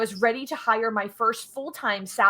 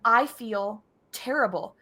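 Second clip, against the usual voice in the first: imitating sorry employee; slower than usual. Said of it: "almost, like, tearing".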